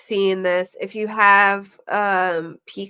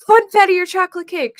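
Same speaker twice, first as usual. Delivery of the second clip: mock serious; 11 semitones higher, 8 dB louder, faster than usual. Voicing pranksters' absurd question.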